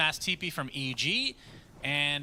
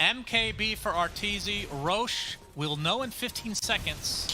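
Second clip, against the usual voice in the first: Southern twang; 5 semitones higher, slower than usual. Real, not acted. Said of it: "You're doing a Southern twang".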